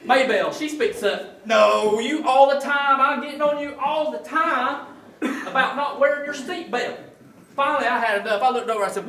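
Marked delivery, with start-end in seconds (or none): 1.5-7.0 wife's nag, a bit louder and higher; wife nagging husband in front of the officer, louder mock scold. Louder mock nagging wife.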